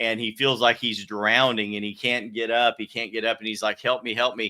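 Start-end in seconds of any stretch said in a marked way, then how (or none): 3.8-4.5 mock crying, put-on baby voice. Retelling a video of a baby in water: imitating a crying baby. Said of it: "the little baby crying in the water".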